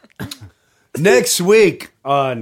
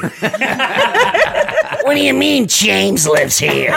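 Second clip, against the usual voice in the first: higher, slow disbelief; slow incredulous voice; 8 semitones higher, much slower than usual. Acted. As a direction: drag it out in disbelief. Voicing a rock musician.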